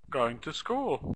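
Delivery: going to school, said slowly as a short answer; slow clipped answer. Shown as a demonstration. Teacher models the short answer slowly. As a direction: drop the subject and say it slowly. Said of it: "even shorter answer".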